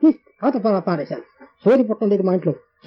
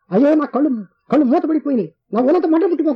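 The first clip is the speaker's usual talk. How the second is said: higher, urgent retold cry of pain; 6 semitones higher than usual. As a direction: cry out as if eyes burn shut, half-acted. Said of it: "కేకలేస్తున్నాను". (కళ్ళు మండుతున్నట్టు ఎక్కువ స్వరంలో అరుపు)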